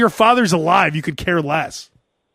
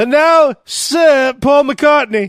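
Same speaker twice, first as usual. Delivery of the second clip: ceremonial announcer; 6 semitones higher, 4 dB louder, much slower than usual. Pretend. Mock knighting ceremony.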